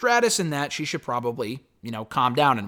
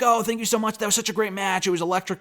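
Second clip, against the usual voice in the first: higher-pitched mock gushing; gushing fan; 6 semitones higher, faster than usual. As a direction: imitate an overexcited, grateful fan. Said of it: "and she was like".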